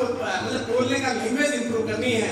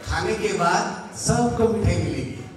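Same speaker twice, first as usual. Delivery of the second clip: slow, lower, kindly promise; gentle positive phrasing; 5 semitones lower, slower than usual. Shown as a demonstration. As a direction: say it calmly like good news. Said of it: "इसी जगह क्या बोलो".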